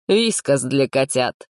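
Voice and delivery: slow, sighing, melancholy tone; a lightly sighed melancholy request. Acted. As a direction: drag it out like a weary sigh. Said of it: "меланхолично вздохнул Женька".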